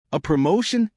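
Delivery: delighted shout over a crackling phone; excited shout. Acted. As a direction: call it out over a bad line, thrilled. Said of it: "she practically shouted over the crackling line".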